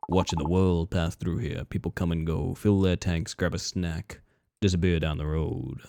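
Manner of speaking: low, hushed, ominous stranger; creepy stranger. Acted. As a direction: speak low and knowingly, like a haunting. Voices the eerie stranger.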